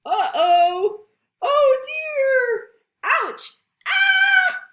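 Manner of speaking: high, loud mock cries of trouble; hammed-up alarm. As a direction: play up the disaster for kids. Sound effects while reading.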